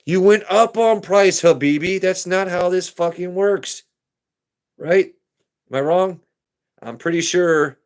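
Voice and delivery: mock-offended haggler, high and loud; indignant outburst. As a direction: act scandalized at the price hike. Buyer outraged at raised price.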